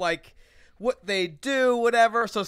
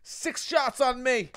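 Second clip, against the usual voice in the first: louder, higher mock bouncer hype; excited bouncer; 4 semitones higher, 6 dB louder, slower than usual. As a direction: hype him up with free shots. Bouncer offering shots.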